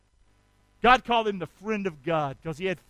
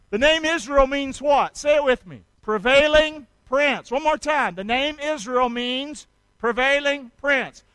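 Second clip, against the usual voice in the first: loud, raised, drawn-out prompting; call-and-response teaching; 3 semitones higher, 4 dB louder than usual. Real, not acted. Preacher drilling a name's meaning with his congregation, loud call-and-response. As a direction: lead the crowd in repeating it. Leads congregation in repeating a phrase.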